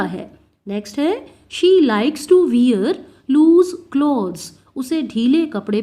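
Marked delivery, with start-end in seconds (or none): 1.3-4.4 very slow, clear dictation pace; spoken like a teacher dictating; slow example reading. Shown as a demonstration. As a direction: read each word out slowly for the class.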